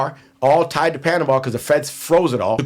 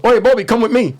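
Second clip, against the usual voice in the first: retold call; 8 semitones higher, 5 dB louder than usual. Cuban guy quoted calling.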